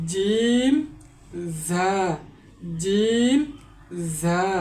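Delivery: teacher contrasts জিম and জা; letter contrast demo. Shown as a demonstration. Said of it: "কিভাবে উচ্চারণ করতে হয়". (জিম ও জা পার্থক্য)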